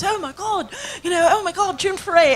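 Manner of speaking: high, laughing gush of delight; excited. Retold or imitated. A famous singer meeting his childhood cartoon hero, gushing excitedly. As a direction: squeal like a starstruck fan. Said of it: "He was so excited".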